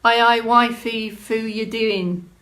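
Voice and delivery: put-on reading Doric in a light Scottish accent, slowing at the end; Scottish Doric read aloud. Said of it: "sent me something in Scottish".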